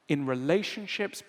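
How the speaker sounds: ordinary talk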